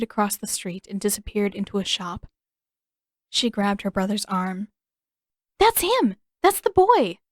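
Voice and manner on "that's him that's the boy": high, loud eager cry; excited spotting. Acted. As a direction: point him out, bursting. Katara spots the boy, excited.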